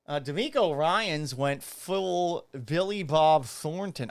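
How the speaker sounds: talking around a cigarette; cigarette in mouth. Real, not acted. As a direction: lips clamped on a cigarette. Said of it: "I can't talk with this, this fake cigarette in my mouth".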